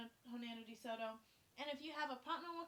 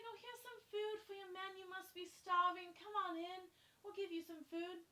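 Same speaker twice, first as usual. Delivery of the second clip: nice and sweet; 6 semitones higher than usual. Acted. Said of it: "really nice and sweet".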